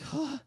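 short tired exhale; exhausted sigh. Acted. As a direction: let out a quiet worn-out breath.

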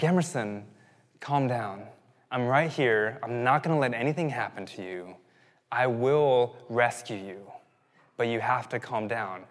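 put-on steady a frightened child without alarm; reassuring father. Father retelling his promise to rescue his daughter, calm and steady.

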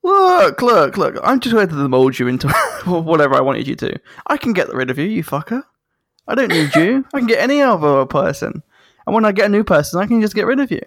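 lightly hammed-up gloating tyrant; menacing Emperor. Palpatine taunting Vader, a lightly hammed-up sneering threat. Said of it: "And Palpatine's like".

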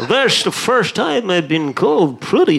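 Sean Connery impression. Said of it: "That's Sean Connery now".

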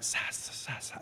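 joking mock Parseltongue; Parseltongue hiss. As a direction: hiss the syllables like a snake. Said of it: "speak, uh, Parseltongue".

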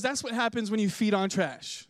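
hammed-up marital reprimand; mock scolding wife. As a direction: lecture him, starting high and coming down. Wife's acted scolding continues.

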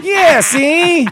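high, loud goofy giant bellow; dopey cartoon bellow. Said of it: "what if the giant got up and was like".

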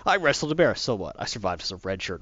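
hammed-up shocked boast; mock boast. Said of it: "It's like".

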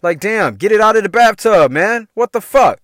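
acting out an exasperated scolding; retold mad rant. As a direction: chew out messy roommates, hammed up. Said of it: "So I would get mad".

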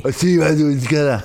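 a slow, drawn-out mall Santa; lightly voiced department-store Santa calling the next child; a mall Santa invites kids onto his lap, slow and hammy. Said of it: "Han er uhyggelig".

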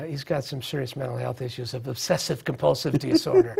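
dry, teasing mock diagnosis; sarcastic. Real, not acted. Joking to the audience about a neighbor's shoe shining, sarcastic. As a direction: say it as tongue-in-cheek sarcasm. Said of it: "That's, that's sarcasm".

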